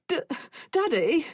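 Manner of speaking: put-on high, tearful little-boy whimper; a scared child whimpering to his father; small boy pleading through tears. A narrator's reading. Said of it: "he whimpered".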